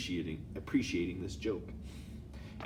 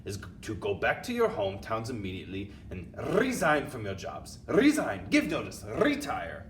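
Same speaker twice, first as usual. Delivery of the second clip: booming commands, louder at the end; thundering witch; 4 dB louder than usual. Acted. Grand High Witch ordering her witches to resign, booming. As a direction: roar orders at the assembled witches. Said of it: "thundered the Grand High Witch".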